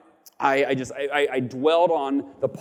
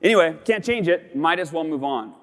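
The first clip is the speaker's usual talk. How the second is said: quick frustration then acceptance; 2 semitones higher than usual. Retold or imitated. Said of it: "I go".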